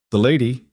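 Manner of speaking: lady pointed and emphasized; emphasis on lady. A narrator's reading. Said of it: "with emphasis on the word".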